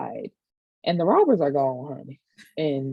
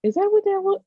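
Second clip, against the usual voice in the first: high, loud disbelief; high surprised question; incredulous; 4 dB louder than usual. Real, not acted. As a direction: ask it amazed and louder.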